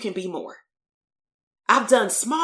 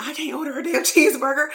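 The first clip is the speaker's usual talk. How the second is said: mock whiny teen; 7 semitones higher than usual. Kid complaining to therapist.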